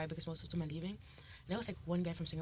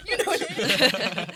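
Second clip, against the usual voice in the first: slow, loud, laughing drawl; hype man; 7 semitones higher, 14 dB louder, much slower than usual. Retold or imitated. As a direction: stretch it out laughing. Imitating club hype guy.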